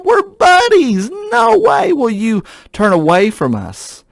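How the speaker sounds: high, whiny mocking voice of a careless friend; a sing-song, hammed-up buddy voice brushing off God's anger; silly mock attitude. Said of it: "Well, that's a silly attitude".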